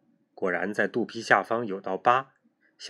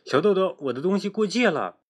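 put-on higher child voice, a touch insistent; a girl voicing a gentle reminder; reminding a deskmate; 8 semitones higher, 3 dB louder than usual. A narrator's reading. Girl reminds her deskmate her things crossed over, higher voice. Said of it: "黄美美提醒她".

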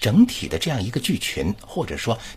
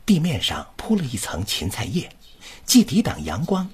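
flowing recital reading for the student to copy; model reading. Shown as a demonstration. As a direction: read it as one smooth connected sentence group. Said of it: "来，你跟老师读". (示范朗读)

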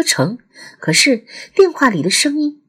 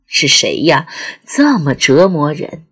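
exasperated; 4 semitones lower than usual. Acted. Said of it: "烦躁郁闷的想大喊大叫".

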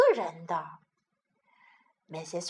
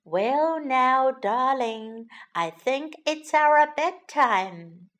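slow, hopeful, coaxing; slower than usual. Acted. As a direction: coax gently toward bed. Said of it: "said Missus Rabbit hopefully".

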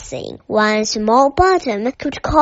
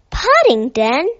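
"Paddington?" rising, louder, in disbelief; incredulous question; 2 semitones higher, 5 dB louder than usual. Acted. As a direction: repeat the name as if it can't be true.

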